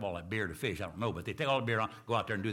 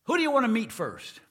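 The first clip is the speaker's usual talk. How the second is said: higher, louder, beaming welcome; joyful welcome; 12 semitones higher, 8 dB louder than usual. Acted. Saint Peter welcoming John into heaven, joyful and loud. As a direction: throw the gates open for him.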